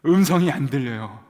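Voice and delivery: loud, anguished call that no voice answers; loud cry. Retold or imitated. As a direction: call out into the silence. 응답 없는 기도를 재연. (들리지 않는 음성에 크게 외치듯)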